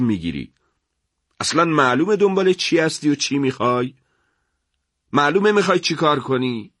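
lightly voiced officer hammering a suspect prisoner; interrogator's pressing tone; scolding sergeant.

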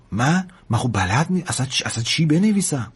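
halting, caught off guard; flustered hesitation. Acted. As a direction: stammer out that you have no idea. Lad flustered at writing a letter.

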